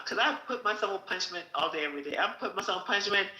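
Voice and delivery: laughing aside. Real, not acted. Self-mocking aside.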